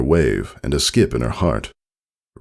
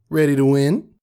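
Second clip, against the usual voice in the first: higher, teasing challenge; a confident rival sizing her up; cocky rival filly; 11 semitones higher than usual. A narrator's reading. Rival filly greeting Scootaloo before the race, cocky.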